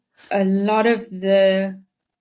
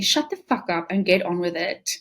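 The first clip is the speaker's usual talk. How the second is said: put-on Scottish accent. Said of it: "in a really thick Scottish accent".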